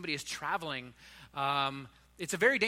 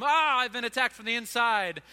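higher, louder, hammed-up dismay at being caught; mock shock; 4 semitones higher, 5 dB louder than usual. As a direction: play it like a hit from within. Mock David realizing he's caught.

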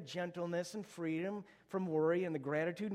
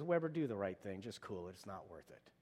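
low, hushed divine counsel fading almost to nothing; a gentle inner voice telling him to cool it; soft inner voice; 9 semitones lower, 8 dB quieter than usual. Retold or imitated. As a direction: let it sink to a near-silent nudge. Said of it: "the Holy Spirit says".

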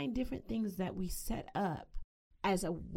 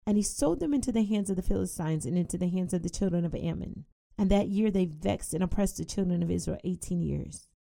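fast, louder proclaiming of the verse; scripture reading; 4 dB louder, faster than usual. Acted. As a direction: drive the long list forward with force. Reads scripture aloud.

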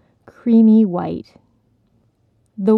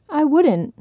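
earnest promise; 7 semitones higher than usual. Acted. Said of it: "the crane promised".

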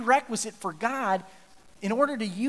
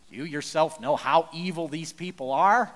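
excuse-making; 5 semitones lower than usual. Acted. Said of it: "Aaron replied".

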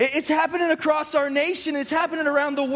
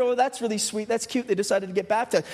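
lower, muted polite approval; underwhelmed mock reaction; 5 semitones lower than usual. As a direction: imitate a mildly pleased, unmoved onlooker. Mimics congregation's underwhelmed baptism reaction.

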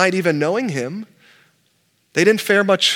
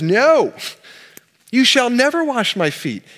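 higher, louder flat refusal, leaning on "never"; a firm no with a hint of outrage; emphatic refusal; 7 semitones higher, 4 dB louder, slower than usual. Peter refusing to let Jesus wash his feet, emphatic and louder. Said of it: "he kinda makes it even more emphatic".

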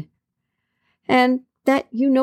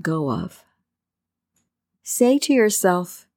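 guided meditation. Acted. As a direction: ease the listener into calm with long pauses.

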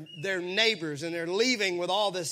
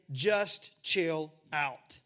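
laughing paraphrase; 5 semitones lower, much slower than usual. Retold or imitated.

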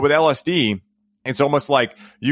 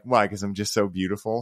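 softer mock version of so beautiful, teasing; a quieter, playful parody of the heartfelt line; teasing mockery; 2 semitones lower, 5 dB quieter than usual. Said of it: "She'll make fun of me".

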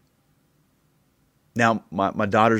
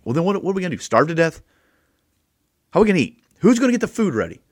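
high, rising mock panic, faster at the end; panicky Martha; 8 semitones higher, 3 dB louder, much faster than usual. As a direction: play the flustered host in a hammed-up fluster. Voicing Martha's panicked protest.

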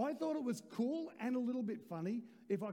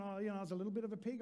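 mock modest; much faster than usual. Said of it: "I'm not going".

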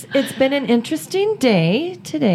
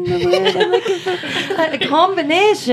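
put-on Irish accent; 4 semitones higher, faster than usual. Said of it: "That was a little Irish".

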